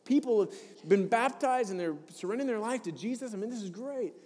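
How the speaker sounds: mildly incredulous, upbeat; puzzled disbelief. Retold or imitated. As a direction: act out baffled delight at her tears. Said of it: "I'm going".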